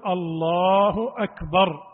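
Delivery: slow, clear الله أكبر; correct takbir. Shown as a demonstration. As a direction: pronounce الله أكبر slowly and fully. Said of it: "هو أن يقول". (الله أكبر بتأنٍ ووضوح)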